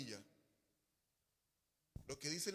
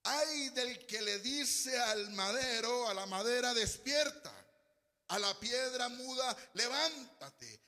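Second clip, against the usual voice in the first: exclaimed scripture reading; 3 dB louder, slower than usual. Real, not acted. Preacher reads verse nineteen to the church, slow emphatic proclamation. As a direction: stretch each phrase like a warning.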